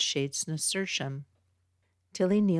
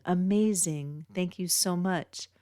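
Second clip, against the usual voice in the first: amazed thanks; 3 semitones higher than usual. Acted. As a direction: throw it open, delighted. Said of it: "Max throws his arms open".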